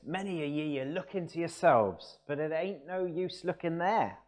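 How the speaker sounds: put-on broad Essex accent. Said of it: "in his broad Essex accent".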